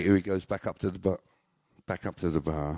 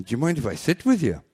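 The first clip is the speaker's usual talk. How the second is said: put-on girl's voice; 8 semitones higher, 6 dB louder, faster than usual. Girl in joke.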